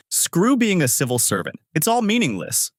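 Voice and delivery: high-pitched, mildly bitter outburst; a touch of self-directed anger; angry at oneself. A narrator's reading. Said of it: "I got angry at myself".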